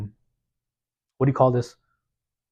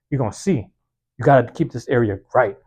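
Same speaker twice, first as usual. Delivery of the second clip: losing his voice; hoarse voice. Real, not acted. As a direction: voice giving out, hoarse. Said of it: "I'm losing my voice".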